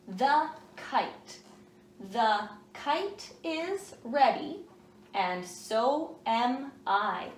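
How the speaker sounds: slow, word-by-word reading aloud; "the kite is ready" paced word by word for young readers; slow choral reading. Shown as a demonstration. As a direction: read it slowly so the kids can follow. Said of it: "Fingers up on the title".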